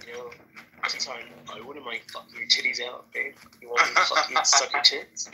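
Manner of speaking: straight bro voice. Pretend. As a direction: play a crude frat bro hitting on girls. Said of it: "do your bro voice".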